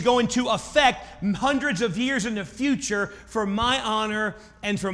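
God putting Habakkuk in his place, loud. Acted. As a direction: proclaim it as God, high and loud. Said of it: "God comes to him and says".

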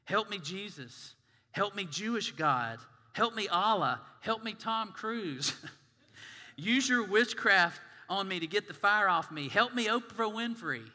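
mock panicked yelling of Ricky Bobby. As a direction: ham up a frantic prayer to anyone. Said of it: "what he was yelling".

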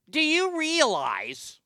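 a hint of a grumbly old commentator; lightly voiced Andy Rooney rant. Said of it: "in my best Andy Rooney impersonation".

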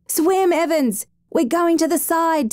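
urgent, high, slow yell. A narrator's reading. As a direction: shout it out across the river, slowly. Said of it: "Templar yelled".

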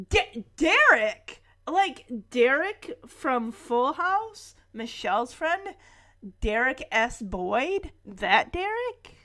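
slow, incredulous questioning; drawn-out puzzled disbelief; mock disbelief. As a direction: stumble on the name, then question it slowly. Disbelief at the dog's new name.

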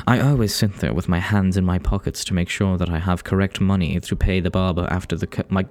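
put-on English reading voice; read-aloud storytelling, English accent. Real, not acted. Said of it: "easier to read in an English accent".

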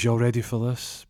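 deflated, lifeless hype call; limp delivery. Retold or imitated. DJ hitting the track again, a limp half-hearted call. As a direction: say it like all the energy is gone. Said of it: "he says it very limp".

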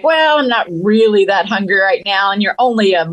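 a lazy, half-awake big cat; sleepy lion. Acted. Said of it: "sleepy and stuff".

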